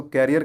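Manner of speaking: "करियर" said like carrier; common mispronunciation. Retold or imitated. Teacher quotes people lamenting their work, mispronounced as "carrier". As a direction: say "करियर" as CARE-ee-er. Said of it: "अरे भाई, करियर ख़राब नहीं".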